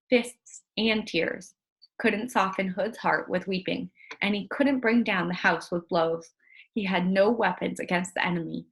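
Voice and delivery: steady read-aloud narration to a class; story narration. A narrator's reading. Teacher reading the novel to the class, storytelling narration. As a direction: read it like a chapter to children.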